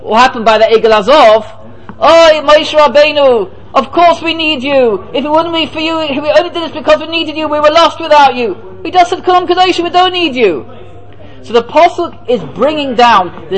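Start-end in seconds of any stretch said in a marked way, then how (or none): 2.0-10.6 pleading people. Retold or imitated. People pleading to Moshe after sin.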